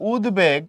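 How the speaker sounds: উদ্বেগ with the b clearly sounded, "ud-beg"; sounded bofola. Shown as a demonstration. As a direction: keep the b after the d in উদ্বেগ. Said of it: "তুমি এখানে বফলার উচ্চারণ বহাল রাখো".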